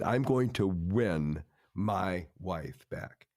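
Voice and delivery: each word weighed, a vow; slow resolve. Retold or imitated. Husband telling the counselor he'll win his wife back, slow and resolved.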